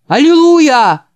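loud, high Аллилуйя with a falling end; shouted hallelujah. Acted. Bast shouts hallelujah at the preacher. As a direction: cry out in fervor. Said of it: "крикнул Баст".

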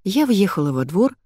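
ordinary delivery, nothing marked

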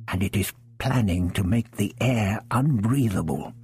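usual speaking voice

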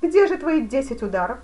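loud, high challenge; taunting demand. A narrator's reading. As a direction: demand it heatedly mid-fight. Duke taunts his opponent mid-fight. (громко, с вызовом)

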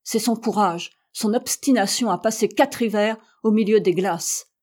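captain heating up defending his hero; growing heated. Acted. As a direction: warm up as he defends him. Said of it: "en s'animant".

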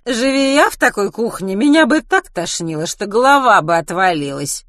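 loud, high-pitched, brash declaration; brash announcement. Acted. Kitty declares her disgust at the kitchen, loud and brash. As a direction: announce it for all to hear. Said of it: "объявила Китти".

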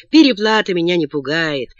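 ordinary delivery, nothing marked

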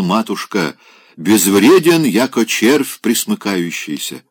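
громко, с высоким пафосом; вещает, как на суде; пьяная торжественность. Acted. Пьяный Опёнкин торжественно оправдывается. (Опёнкин торжественно перечисляет свои добродетели бабушке)

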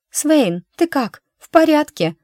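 high, loud anxious calls; frightened, rising concern; worried. A narrator's reading. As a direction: rush to him in alarm. She rushes to fallen man.

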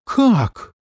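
sharp, high startled "Как?"; shocked cry. A narrator's reading. Fox on the phone to Max, a high shocked cry. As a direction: jolt out the word in alarm. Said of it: "крикнула лисица".

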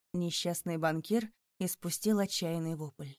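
plain reading voice

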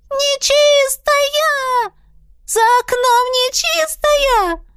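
very high, loud, slow drawn-out shriek; terrified scream. A narrator's reading. Янина sees faces at the window, terrified shriek. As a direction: shriek as if you see a demon. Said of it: "завопила Янина".

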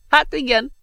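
magasan, lassan, nevetéssel átszőve; önfeledten nevetve mondja; hahotázva. Acted. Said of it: "hahotázott önfeledten a professzor". (hahotázó öreg professzor)

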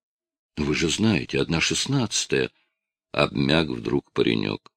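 usual speaking voice

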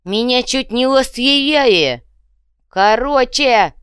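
high, loud, slow yell; shouting. A narrator's reading. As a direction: bellow it to cut them off. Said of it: "заорал Иголка".

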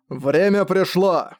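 slow, high booming angel call; booming proclamation. Acted. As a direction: proclaim it slowly to the army. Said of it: "провозгласил ангел".

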